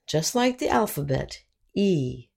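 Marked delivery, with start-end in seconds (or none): 1.7-2.3 E said as "ee", like the letter's name; long E. Shown as a demonstration. Teacher showing learners the long E sound, clear model. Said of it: "the long E sound".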